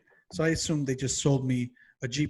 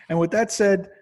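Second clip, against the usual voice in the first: loud sign-off; 5 semitones higher, 5 dB louder than usual. Real, not acted. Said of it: "shh, in the library".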